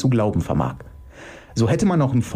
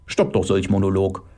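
sulky monotone, slightly lowered; monotone defiance; 3 semitones lower than usual. Acted. Otto balking at the monologue, monotone. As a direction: grumble it on one note. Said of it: "trotzt Otto monoton".

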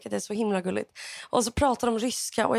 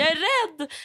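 higher, calling out in fear; mock call across a platform, pitched up; retold call; 6 semitones higher than usual. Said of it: "så ropade jag så här".

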